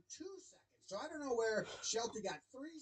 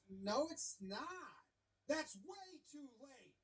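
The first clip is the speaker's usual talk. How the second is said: imitating umpire Chris; 4 semitones higher, slower than usual. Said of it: "umpire Chris says".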